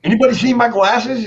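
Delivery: a touch of a puzzled father; imitating Dad. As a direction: play the lost dad hunting for his glasses. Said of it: "he'd be like".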